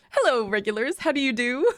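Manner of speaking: showy hello breaking into laughter; laughing greeting. Acted. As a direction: greet the chat, cracking up. Fiona greets her stream, breaking into laughter.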